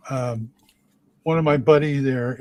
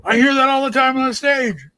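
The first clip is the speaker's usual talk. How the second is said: mock exasperation; 10 semitones higher, 5 dB louder than usual. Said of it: "'cause he's like".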